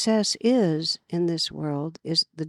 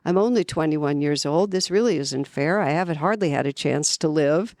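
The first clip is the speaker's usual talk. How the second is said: indignant, a bit louder protest; strong protest; 3 dB louder than usual. Retold or imitated. Young man protesting to Jesus, indignant and louder. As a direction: argue your case, insisting it's unfair. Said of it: "protested quite strongly".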